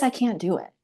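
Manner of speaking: a mildly voiced first "I can't do it"; mild despair. To herself on the toilet, understated despair. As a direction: imitate starting to give up, still held back. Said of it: "I didn't say any of this out loud".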